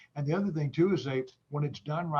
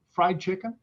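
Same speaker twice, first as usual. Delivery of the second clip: Southern accent; 6 semitones higher, 6 dB louder than usual. Real, not acted. Answering the host's question in a Southern accent. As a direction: let the Southern accent slip out. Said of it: "my Southern accent must have kicked in there".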